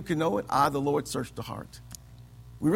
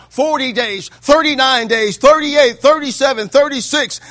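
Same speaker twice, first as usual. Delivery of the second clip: countdown that climbs louder and higher; rising dramatic countdown of the days; building countdown; 3 semitones higher, 4 dB louder than usual. Acted. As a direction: count the days down like a ticking clock.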